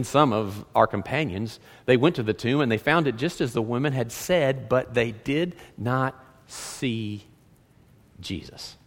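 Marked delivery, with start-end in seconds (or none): 4.7-8.8 very slow, dropping away to almost nothing; slow, pausing, fading to a breath; hushed, halting. Acted. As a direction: let each word fall lower and softer. Dramatic pause in disciples' account.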